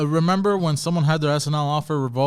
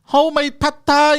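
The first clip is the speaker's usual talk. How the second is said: mock Asian accent, much higher and louder; 11 semitones higher, 8 dB louder than usual. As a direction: put on a hammy Asian accent. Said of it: "I'm gonna do it with the Asian accent too".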